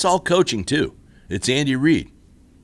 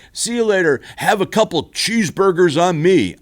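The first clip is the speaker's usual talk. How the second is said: mock goodbye; 6 semitones higher, 5 dB louder than usual. Quoting Terry's goodbye.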